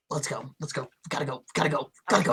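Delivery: low, soft, urgent aside; hushed urging. Acted. Player hurrying companions away from the guard, hushed. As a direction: urge them off under your breath.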